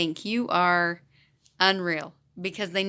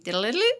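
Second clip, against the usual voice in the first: sing-song electronic beep imitation; quick, slightly raised little alert jingle; imitated pump beep; 3 semitones higher, much faster than usual. Teacher mimicking her insulin pump alarm, imitated beep. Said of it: "does this little beep".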